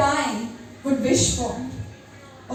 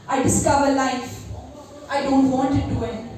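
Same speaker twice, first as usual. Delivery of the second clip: poem recitation. Acted. Recites her poem Metanoia.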